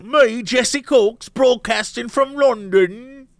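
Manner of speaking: slow, grand self-announcement; a hint of a pompous London presenter; grand announcer. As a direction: announce yourself slowly like a posh broadcaster. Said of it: "I might one day be like".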